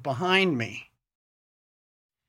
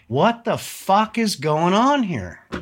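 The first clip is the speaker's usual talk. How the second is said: higher, slower repeated demand; retold shout; 6 semitones higher than usual. Homeowner demanding answers from the intruder, raised mock shout. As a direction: bark it again, slower and higher.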